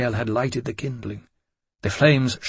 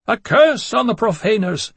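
screaming curse; 10 semitones higher, 5 dB louder than usual. A narrator's reading. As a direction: wail it like a chanting fiend. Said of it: "came screams from below".

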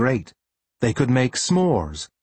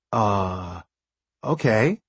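surprised; 2 semitones lower, much slower than usual. Acted. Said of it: "unable to hide his surprise".

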